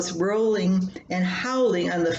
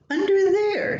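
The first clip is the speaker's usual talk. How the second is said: put-on high, louder little-girl voice leaning on under; a seven-year-old correcting her mom; insistent child; 13 semitones higher, 4 dB louder than usual. Daughter insists, pointing at robe.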